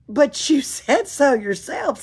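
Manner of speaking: high, loud, slow protest; child protesting. Acted. Annika objecting to Pippi, lightly voiced high protest. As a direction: insist like a small girl.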